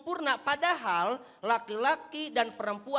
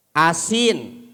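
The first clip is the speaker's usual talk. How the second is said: louder, lower repeat; husband repeating his complaint to his wife; loud defiant complaint; 3 semitones lower, 11 dB louder than usual. Acted. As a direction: say it again, defiantly.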